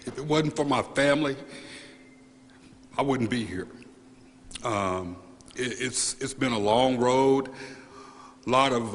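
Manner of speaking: choked up, halting, with long pauses; real tearful gratitude, haltingly delivered; emotional. Real, not acted. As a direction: speak through real emotion, stopping to compose yourself. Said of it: "I'm sorry that I got emotional".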